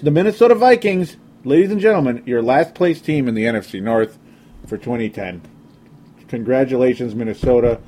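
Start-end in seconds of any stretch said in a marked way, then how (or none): 0.0-3.7 higher, grand mock-announcer call. Host to listeners, sarcastic announcer intro. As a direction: present the last-place team like a ringmaster.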